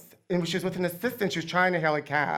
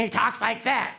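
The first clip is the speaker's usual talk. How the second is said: disguised movie-villain voice, lightly done; The Blank; 3 semitones higher than usual. Retold or imitated. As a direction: talk in a put-on disguised voice. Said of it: "another character called The Blank".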